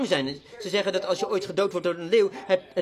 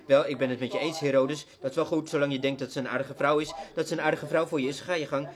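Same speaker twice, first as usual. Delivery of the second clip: mock compromising preacher; 6 semitones lower, 3 dB quieter than usual. A preacher too weak to rebuke Herodes, in a lower, softer, mocking voice. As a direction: lower and softer, a lightly mocking yes-man voice.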